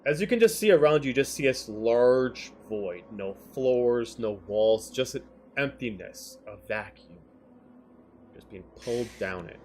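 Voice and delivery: eerie scene-setting narration; game master narration. A narrator's reading. DM describes the void.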